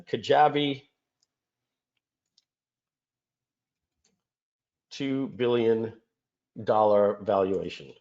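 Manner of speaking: a lightly voiced New York accent. Host reads the Kajabi valuation in a mild New York accent. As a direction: say it like a New Yorker, slowly. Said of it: "I love that New York accent".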